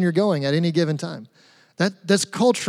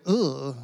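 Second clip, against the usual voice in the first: low, soft groan of distaste; mildly recoiling "ugh", acted; imitated disgusted "ugh"; 4 semitones lower, 6 dB quieter than usual. Christians seeing others act in Jesus's name, imitated distaste. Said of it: "and we kinda go".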